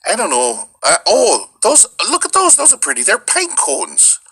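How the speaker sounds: put-on high, stretched Upper Midwest accent; Michigan accent. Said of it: "one of my best friends is from Michigan".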